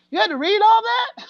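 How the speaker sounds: lightly voiced amazed brother asking about the script; brother's amazement. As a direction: play the stunned brother seeing a script. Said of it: "he's like".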